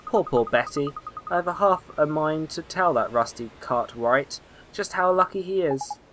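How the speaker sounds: lightly voiced concerned old neighbour; gossipy old woman. Neighbour confiding family troubles to a boy, gossipy concern. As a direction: share sad gossip in a kindly old lady's role.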